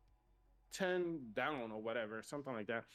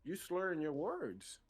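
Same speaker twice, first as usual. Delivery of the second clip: mocking the cop; 5 semitones higher, slower than usual. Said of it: "He's like".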